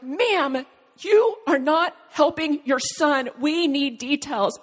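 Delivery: imitated stern, emphatic scolding; mad dispatcher. Emergency dispatcher to a mother who keeps praying, mad and insistent. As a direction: scold firmly, pressing each word. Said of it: "they were so mad".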